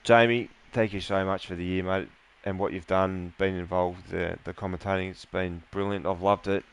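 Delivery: holding back tears; emotional. Real, not acted. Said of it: "sorry for getting emotional there towards the end".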